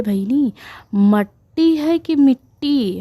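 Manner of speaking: lightly voiced old villager, puzzled; old man's voice. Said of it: "तो एक बैठे थे बाबा, वो बोले". (धीमी, ऊँची आवाज़ में बूढ़े बाबा की नकल)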